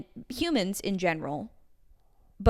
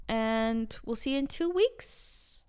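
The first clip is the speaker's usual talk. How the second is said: whispering; 5 dB quieter, slower than usual. Pretend. Whispered podcast sign-off.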